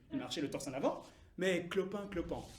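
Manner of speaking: subdued, halting retelling; hobbling veterans. Acted. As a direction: lose the swagger and limp through the words. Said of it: "la plupart étaient estropiés ou boiteux".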